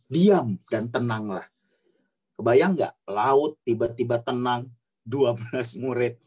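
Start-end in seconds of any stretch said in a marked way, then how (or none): 0.1-1.5 low, slow, composed command; calm low order to a storm; gentle command. Acted. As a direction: say it slowly and low, with calm authority. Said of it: "dengan lembut, ya, dia cuma bilang".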